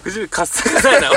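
laughing parody of the fake Kansai line; mocking fake Kansai. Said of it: "エセ関西弁っぽく".

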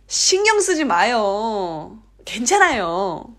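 insistent, with long stretched endings; emphatic reassurance. Shown as a demonstration. Korean refusing fuss, insistently reassuring. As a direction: brush it off, drawing out the last syllable. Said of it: "これも念押しだね".

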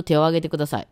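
「手」 kept short before 「を」; don't stretch 「手」, go straight into 「を」; short vowel. Shown as a demonstration. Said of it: "伸ばしませんよね". (大阪弁で「手」を伸ばさずに)

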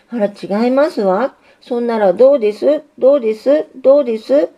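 lightly voiced girl, rising on each どうです; a gentle tease, pressing the question; coaxing young woman. Signalless coaxes Signal.

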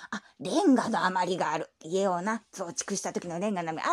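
put-on creaky old man who drawls; creaky wise old man. Grandpa voice held. (低くしわがれたおじいさんの声)

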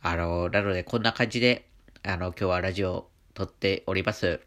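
stuffy nose from allergies; talking through a blocked nose; nasal voice. Real, not acted. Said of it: "このような鼻声になっております".

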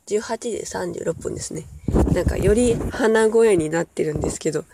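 stuffy nose, talking through a cold; nasal, blocked-up voice. Real, not acted.

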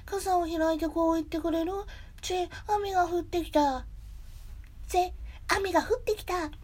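attempted gentle cartoon bear, mostly high; Winnie the Pooh. Bear asking for an umbrella trick, mild cartoon impression. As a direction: raise the voice and draw lines out lightly. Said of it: "あとはプーさん".

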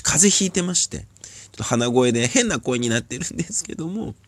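風邪で鼻が詰まった声; 鼻にこもった風邪声で話す. Real, not acted. (鼻声)

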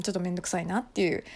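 softly, under the breath; hushed little confession; small voice. Real, not acted. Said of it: "ちょっと小声でね".

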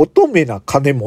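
乙女な金本 drawn out slowly; slow backwards speech. Shown as a demonstration. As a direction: read 乙女な金本 slowly, syllable by syllable. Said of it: "聞いてみましょう".

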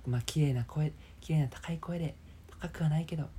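half-joking falsetto farewell; pretty high voice. Shown as a demonstration.

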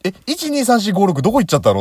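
high, loud disbelieving complaint; where did they all go, baffled; exasperated. Real, not acted. Exasperated rant at phone menu.

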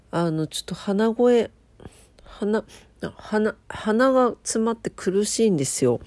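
stuffy nose voice; blocked nose. Real, not acted. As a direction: talk through a blocked nose.

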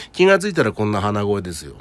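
stuffy, blocked-nose voice; nasal voice. Real, not acted. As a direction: talk through a stuffed-up nose.

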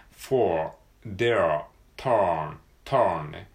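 "for", "there", "turn" each said with a strong curled r; r-colored vowels. Shown as a demonstration. Teacher drills "for", "there", "turn" one by one with a clear r. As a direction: hold the r sound in "for", "there", "turn". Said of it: "伸ばし棒ね".

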